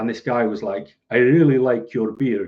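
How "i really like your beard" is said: put-on louder Russian-sounding accent. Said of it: "I don't know why it sounds Russian".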